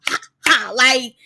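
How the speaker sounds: ordinary delivery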